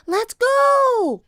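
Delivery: very high, loud call; urgent cry. A narrator's reading. Annie urging Jack to leave the storm, crying out. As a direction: call out to hurry a companion. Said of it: "cried Annie".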